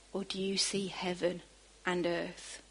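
whispered question, breath only; a whispered aside to the congregation; hushed. Real, not acted. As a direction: let it drop to a whisper. Preacher drops to a hush.

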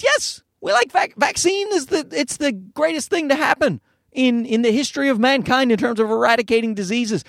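high, urgent insistence; emphatic insistence. Real, not acted. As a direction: push the point hard. Insisting they love vaccines.

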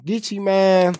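chewing popcorn while talking; words around a mouthful; mouth full. Real, not acted. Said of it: "Sorry, I'm eating on this popcorn".

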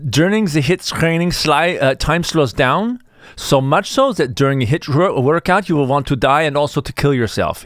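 hammed-up German accent for Einstein; comic German-accented quote; Einstein's German accent. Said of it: "I'll do my best with the accent".

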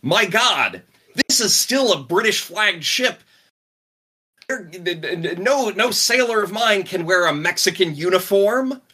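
put-on indignant captain with a touch of German accent; thick German accent. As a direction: sputter in protest with a mild German accent. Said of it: "in his thick German accent".

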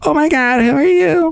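high creaky vocal fry pagan podcaster; a pagan girl host, words crackling in vocal fry up high. Acted. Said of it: "Vocal fry pagan girl".

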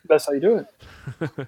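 words smeared by sticky peanut butter; mouth full of peanut butter. Shown as a demonstration. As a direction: talk like your mouth is full. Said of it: "say George with peanut butter in your mouth".

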